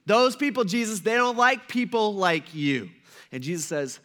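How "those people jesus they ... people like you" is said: raised, drawn-out objection; protesting disciples. Acted. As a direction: object slowly, leaning on the words. Voices worried disciples objecting to Jesus.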